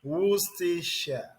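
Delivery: Worcestershire said WUSS-ti-sha; correct pronunciation. Shown as a demonstration. Teacher repeating the word for the class. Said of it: "You see how it is pronounced".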